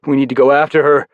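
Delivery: loud call to the team; rally them to follow. Acted. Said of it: "I called to the other Reckoners".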